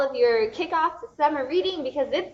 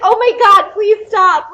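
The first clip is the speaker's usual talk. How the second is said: embarrassed pleading; 10 semitones higher, 14 dB louder, slower than usual. Retold or imitated. Embarrassed fan begging actor.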